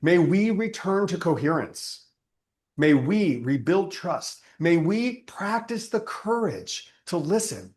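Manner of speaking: measured prayer cadence, each petition set apart; closing prayer. Acted. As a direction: pray it over the gathering, unhurried. Closing prayer before the teaching.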